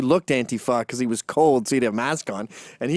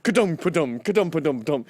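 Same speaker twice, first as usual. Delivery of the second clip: mouth-made hoofbeats, ka-dum ka-dum; galloping horse noise. Retold or imitated. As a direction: clop out galloping horses with your voice. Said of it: "showed up on horses".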